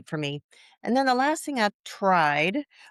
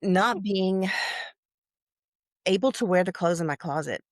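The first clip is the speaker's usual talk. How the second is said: sigh, then a long halting pause; holding back emotion, stopping before the last word; real emotion catching mid-sentence; getting emotional. Real, not acted. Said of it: "pardon me if I get emotional".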